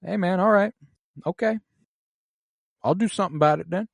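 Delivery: high, casual, then rushed; laid-back dude voice. Retold or imitated. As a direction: shrug it off like a chill guy. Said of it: "him being like".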